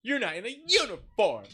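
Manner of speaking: high, loud mock accusation; hammed-up diva scolding; John Barrowman. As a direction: call it out in theatrical indignation. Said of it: "He goes".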